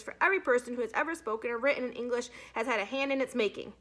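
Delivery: lightly voiced boy reading his report; reading a report aloud. A narrator's reading. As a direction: drone on through it to waste time. Nick reads dictionary article.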